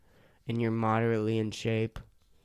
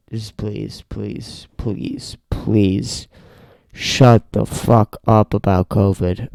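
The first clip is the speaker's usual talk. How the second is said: pleading that builds to a slow, loud yell; beg, then blow up on the last line; exasperated pleading; 10 dB louder, much slower than usual. Real, not acted. Host fed up with covid talk, building to a loud yell.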